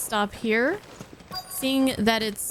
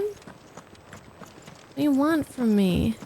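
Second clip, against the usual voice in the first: mock exasperated; 2 semitones higher, much slower than usual. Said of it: "Quit yelling at me, game".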